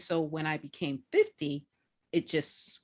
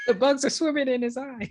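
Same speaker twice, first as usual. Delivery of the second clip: fast, high, loud disbelief; excited shout; 9 semitones higher, 5 dB louder, faster than usual. Real, not acted. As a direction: blurt it out, louder and higher. Retelling friend's horror, shouted.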